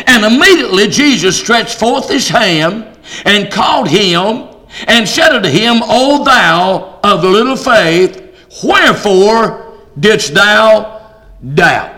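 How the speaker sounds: slow, weighty Bible reading; scripture reading. Acted. Preacher reading the verse to his congregation, slow scripture reading. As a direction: read it out slowly, with drawn-out phrases.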